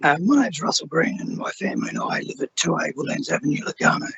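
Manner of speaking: hoarse, strained lost voice. Real, not acted. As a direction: speak through a hoarse, worn voice. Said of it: "I've lost my voice".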